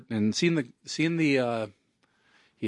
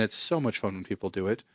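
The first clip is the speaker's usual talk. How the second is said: sarcastic; 3 dB quieter than usual. Real, not acted. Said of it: "please note the sarcasm there".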